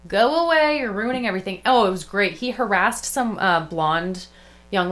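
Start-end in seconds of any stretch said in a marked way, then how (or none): 0.1-1.6 high opening, falling to usual; mock dismissal. Playing at ejecting a streamer from the venue, mock dismissal. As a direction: shoo him off, half in jest.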